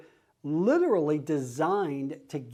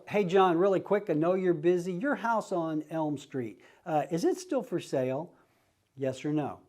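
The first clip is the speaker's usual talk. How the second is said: quick casual ask. Shown as a demonstration. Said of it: "a lot of it has to do with the intonation in your voice".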